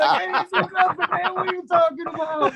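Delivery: high-pitched panicky denial; mock a frightened bandmate protesting innocence; imitated panic. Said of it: "he's just in pure panic mode".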